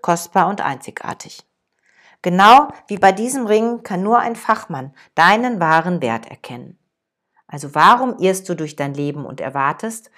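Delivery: put-on the master gently tells the young man his worth; calm and deliberate. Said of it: "ganz ruhig und bedächtig".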